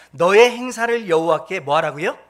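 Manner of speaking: 너의 pushed out loud, the question rising at the end; loud call for the congregation's response; loud prompting question. Shown as a demonstration. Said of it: "다시 한번요".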